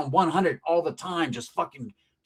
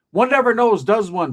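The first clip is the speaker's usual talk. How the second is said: lightly mock-refined, raised pitch; a hint of a posh aside; 4 semitones higher, 5 dB louder than usual. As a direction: play the proper gentleman for a beat.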